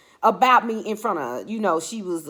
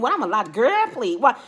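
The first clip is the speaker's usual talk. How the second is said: sassy retort; 4 semitones higher, 6 dB louder than usual. Retold or imitated. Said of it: "that's how she was talking to me".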